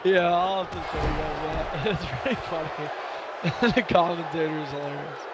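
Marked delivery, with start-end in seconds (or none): 1.9-5.2 laughing. Real, not acted. Laughing while recounting funny video.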